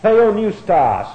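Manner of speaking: Theopneustos said slowly and carefully, syllable by syllable; Greek word said slowly. Shown as a demonstration. Teacher slowly pronouncing Theopneustos for students. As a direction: sound out Theopneustos slowly for the class. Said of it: "Broken up right there of theo and neustos".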